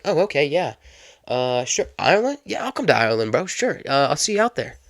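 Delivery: sarcastically agreeable; mock happy acceptance. Cab driver pretends to accept Ireland offer, mock happy. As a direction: play the gullible driver, pitch hopping up. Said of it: "no way the New York cab driver was happy about it".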